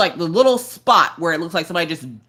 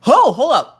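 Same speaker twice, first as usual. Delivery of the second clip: mock shock; 9 semitones higher, 7 dB louder than usual. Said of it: "where they're like".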